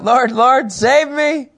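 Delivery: high, loud panicked cry for help. Acted. Sinking Peter cries out to Jesus, high panicked plea. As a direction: Peter sinking, calling desperately. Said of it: "he cried out".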